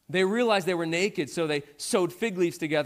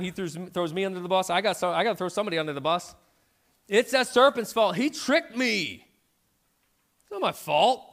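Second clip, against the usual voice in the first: flustered excuses. Retold or imitated. Eve scrambling to blame the serpent, hurried and defensive.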